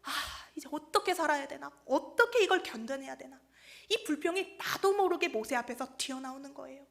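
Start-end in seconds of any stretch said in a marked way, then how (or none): 0.0-3.4 sigh, then a mildly despairing question; lightly acted lament with an opening sigh; mock lament. People in the wilderness sighing over hardship, mildly lamenting. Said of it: "탄식으로".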